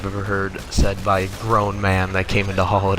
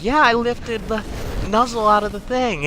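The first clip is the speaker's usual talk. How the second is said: childish customer imitation; 13 semitones higher than usual. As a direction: insist like a childish customer, dragging it out. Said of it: "she goes".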